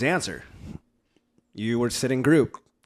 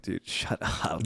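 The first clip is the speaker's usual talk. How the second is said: slow, whispered mock exasperation; weary hushed aside; 4 semitones lower, 5 dB quieter, much slower than usual. Imagining a man fed up with kids' stories, slow exasperated whisper. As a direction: say it slowly under your breath.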